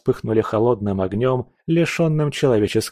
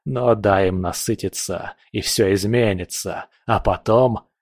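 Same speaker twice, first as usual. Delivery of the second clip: calm menacing villain voice; Leos. Acted.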